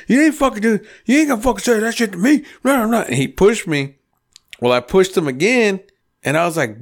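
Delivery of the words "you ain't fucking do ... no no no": high, quick mock arguing; mocking imitation of retort. Storyteller mimics Art arguing back after a shove, high mocking retort. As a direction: mimic him squawking back in protest.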